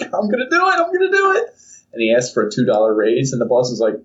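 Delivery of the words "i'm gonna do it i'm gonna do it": rising higher and higher, nervous hype; psyched-up. Acted. Joseph hyping himself to ask for a raise, excited. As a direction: pump yourself up before asking the boss. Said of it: "He's like".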